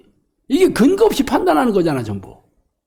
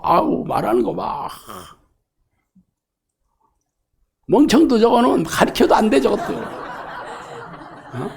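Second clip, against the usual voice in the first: regional bigot. Retold or imitated. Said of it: "뭐 이러면서".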